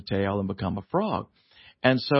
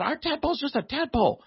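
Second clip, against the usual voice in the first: pitched up, exasperated insisting; high insistent protest; 12 semitones higher than usual. Retold or imitated. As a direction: squeak out the protest in disbelief. Insisting to the teacher.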